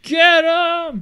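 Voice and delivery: very high, full-voiced yell; Aiden English screaming. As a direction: scream urgent orders from the ringside. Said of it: "starts screaming".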